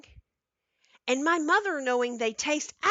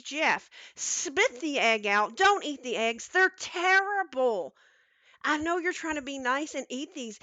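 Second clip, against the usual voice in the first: lightly voiced mom, higher, through a laugh; mom voice, amused confession; 3 semitones higher than usual. Mom laughing as she tells Jeff to spit the egg out. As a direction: laugh it off and own the prank.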